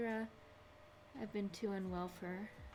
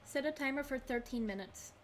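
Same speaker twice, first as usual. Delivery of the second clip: talking to voice assistant; 5 semitones higher than usual. Real, not acted. Speaking to Google timer.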